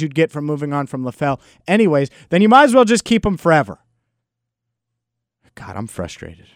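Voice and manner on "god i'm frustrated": frustrated. Real, not acted. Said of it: "Can you tell I'm frustrated?".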